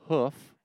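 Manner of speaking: HOOF with a short oo, as in "book"; short-vowel hoof. Shown as a demonstration. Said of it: "I say roof instead of roof".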